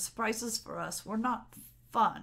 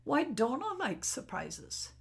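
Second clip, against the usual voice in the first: normal talking voice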